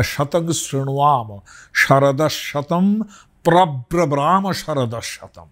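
slow Sanskrit chant; mantra recitation. Shown as a demonstration. Teacher chanting a Vedic blessing, slow and measured. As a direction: intone the verse slowly.

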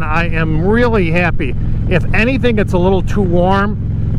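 talking inside a motorcycle helmet; speaking through wind noise while riding. Real, not acted. Riding the bike wearing the helmet.

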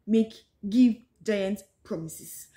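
slow, leaning hard on giant; emphasis on giant; stress on giant. Shown as a demonstration. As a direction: draw out giant in giant promises. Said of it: "Emphasis on the word giant".

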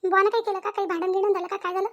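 mother worried over her daughter's tears; fussing mother. Acted. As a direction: pester her with worried questions. Mother keeps questioning.

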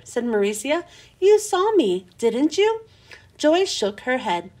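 lively read-aloud for kids, voicing each character a little; expressive children's book narration; storytime reading. A narrator's reading. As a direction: tell it like a bedtime story to a class. Reads a chapter to children.

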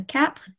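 quatre ending in a French R. Shown as a demonstration. Teacher showing the class number four, quatre with French R. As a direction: finish quatre on a light French R. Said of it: "with the R again".

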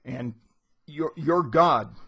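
mild mock outburst building to a loud angry burst on God; retelling Bloom's rant, rising to a shout at the end; Bloom blowing up. Bloom losing his temper with the citizen, a retold half-acted outburst. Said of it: "he blows and he says".

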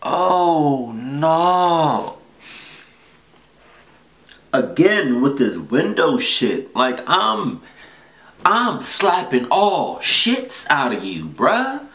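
outraged. Real, not acted. Mock outrage at the intruder.

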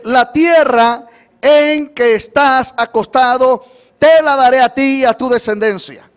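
emphatic scripture reading. Real, not acted. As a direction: declare the promise to the hall. Preacher proclaims verse.

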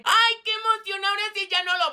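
high squeal easing off; excited squealing. Acted. Regina gushes to Valeria about Ricardo, squealing. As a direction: burst out high, then settle into chatter. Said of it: "Tus gritos se escuchan".

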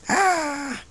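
high yelp; playful yelp. Real, not acted. Owner teases a biting puppy, high yelp. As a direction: squeal as if nipped. Playing at being bitten by pet.

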